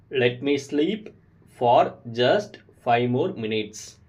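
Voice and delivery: slow, split into two chunks; slow repeat. Shown as a demonstration. Teacher repeats the phrase in chunks for learners. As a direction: pause after sleep, then finish slowly. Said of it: "repeat these sentences with me".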